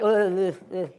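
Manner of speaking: inarticulate stuck grunts; mock brain-dead groans; tongue-tied groan. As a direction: grunt as if words won't come. Acting unable to talk on phone.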